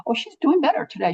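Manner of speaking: lifted light voice for Diane. Retold or imitated. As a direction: quote her in a bright reassuring tone. Quoting Diane's reassurance.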